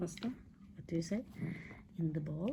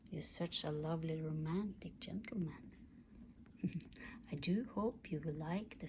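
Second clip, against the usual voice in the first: whisper; 6 dB quieter than usual. Acted. Whispered love letter to dog.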